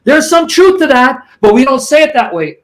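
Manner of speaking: lightly mocking echo of his opponent's words; mock quoting opponent. Debater throws Perkins's own words back at him, mildly mocking. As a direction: parrot his line back with a sneer. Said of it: "'cause that's what you said".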